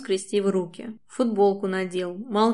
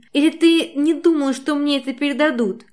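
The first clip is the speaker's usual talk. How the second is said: angry reproach; 6 semitones higher, 5 dB louder than usual. A narrator's reading. Angry quarrel.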